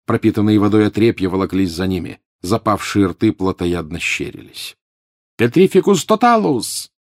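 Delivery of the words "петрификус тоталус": loud, high yelled incantation; yelled spell. A narrator's reading. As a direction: yell the spell in panic. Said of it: "снова завопил Гарри". (вопль)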